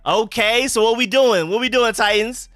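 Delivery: loud, high, eager speculation; excited reaction. Real, not acted. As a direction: react live to a surprise trade. Reacting to live trade-up.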